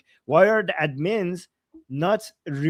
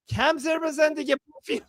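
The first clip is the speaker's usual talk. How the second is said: angry scolding; 8 semitones higher, much faster than usual. Retold or imitated. Acting insulting comment.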